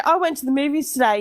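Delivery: natural Australian delivery for copying; Australian accent. Shown as a demonstration. Australian asking friend to copy her, Australian accent. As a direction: model the line in an Australian accent. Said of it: "in your best Australian accent then".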